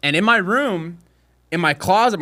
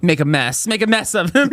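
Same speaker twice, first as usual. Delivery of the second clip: laughing; 3 semitones higher than usual. Pretend. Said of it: "wife urging".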